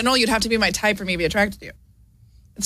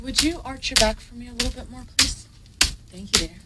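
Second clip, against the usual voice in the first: very polite; 3 semitones higher, 8 dB quieter than usual. Acted. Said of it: "Very polite".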